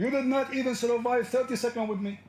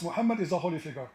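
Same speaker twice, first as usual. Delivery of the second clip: quick dismissive imitation; fast sarcastic parroting; fast mocking quote; 3 semitones lower, 3 dB quieter, faster than usual. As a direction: rattle off his claim in mockery. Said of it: "And he said to us".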